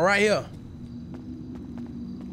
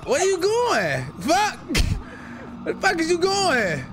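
laughing; 10 semitones higher, slower than usual. Acted. Coach mocks friend running off.

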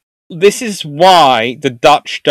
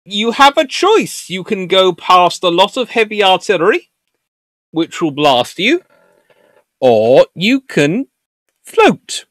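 slow, high, lilting mock offer; acted offering of choices; 6 semitones higher than usual. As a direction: dangle each option with relish. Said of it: "where you're sitting there going".

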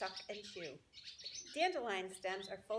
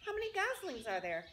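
excited pig; 6 semitones higher, 4 dB louder than usual. Acted. Wilbur voiced, excited.

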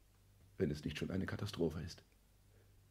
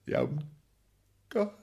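dismayed groan; 4 dB louder, slower than usual. Acted. Dismayed outcry.

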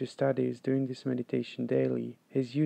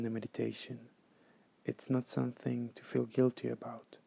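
calm, measured meditation guide; guided meditation. Acted. Meditation teacher guiding listeners to follow the breath, calm and unhurried. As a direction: lead them through it evenly, with long pauses.

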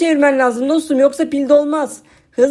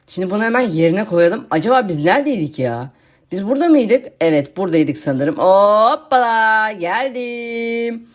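lightly lowered, lazy zombie voice; zombie friend voice; 4 semitones lower than usual. Acted. YouTuber voicing his zombie friend for viewers, lightly lowered zombie voice.

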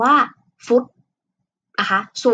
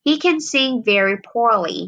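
slow example reading; 2 semitones higher, much slower than usual. Shown as a demonstration. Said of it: "อย่างเช่น".

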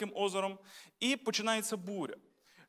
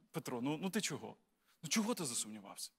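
soft, much quieter chiding "ну чого ти засумнівався"; a gentle scolding of Peter, low and hushed; imitating a quietly reproachful Jesus; mild reproach; 6 semitones lower, 9 dB quieter than usual. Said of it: "Ісус Петра докорив".

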